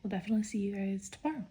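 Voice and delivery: soft unvoiced whisper. Real, not acted. Whispering while filming her reading vlog. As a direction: whisper so as not to wake anyone. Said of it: "Just ignore my whispering".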